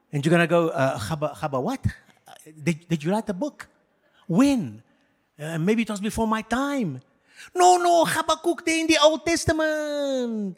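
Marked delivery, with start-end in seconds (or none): 0.7-7.0 softer, hesitant, embarrassed stammer; flustered mumble. Pretend. Pastor plays a churchgoer who never read Habakkuk, mildly flustered. Flustered believer caught unread. 7.5-10.6 much higher, indignant correction; prophet correcting. Pretend. Pastor voicing Habakkuk correcting the clueless believer, high and indignant.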